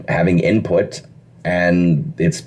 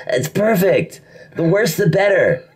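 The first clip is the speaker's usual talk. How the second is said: high-pitched imitation of an approving writer; mock delight; 10 semitones higher, slower than usual. Head writer waving away the actor's accent worry, retold with high mock delight.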